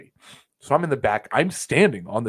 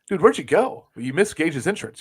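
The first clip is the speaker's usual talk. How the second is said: higher, louder, puzzled call to a buddy; retold surprised question; 6 semitones higher, 3 dB louder than usual. Asking the guy next to him where he went, puzzled and raised. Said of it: "And I'm like".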